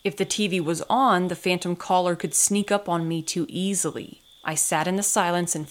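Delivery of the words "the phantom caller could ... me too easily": ordinary delivery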